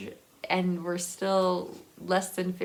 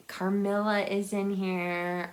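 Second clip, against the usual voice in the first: whisper. Real, not acted. Showing a creepy book.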